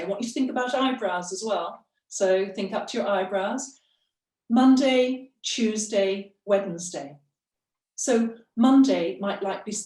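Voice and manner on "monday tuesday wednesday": one breath to Wednesday. Shown as a demonstration. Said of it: "go as far as Wednesday".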